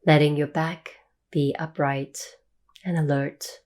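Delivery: calm meditation guide, long pauses between phrases; guided meditation. Real, not acted. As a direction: ease listeners into stillness, leaving long silences.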